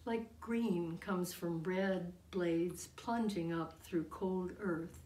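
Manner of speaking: deliberate verse reading with pauses between phrases; poetry reading. Acted. Poet reads tribute to her daughter, deliberate recital. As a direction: recite it line by line, letting each phrase land. Reads own poem aloud.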